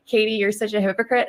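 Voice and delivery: lightly voiced accusing critic; mock critic. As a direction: toss the accusation back plainly. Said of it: "And so you can say".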